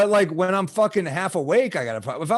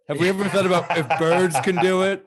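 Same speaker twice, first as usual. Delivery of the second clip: mock lawyer; 2 semitones higher than usual. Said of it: "Your Honor, what about birds?".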